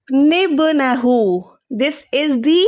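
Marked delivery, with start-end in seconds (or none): 0.1-1.1 निब्नहु drawn out slowly, syllable by syllable; slow Quranic recitation of निब्नहु. Shown as a demonstration. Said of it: "अब ये क्या बन गया".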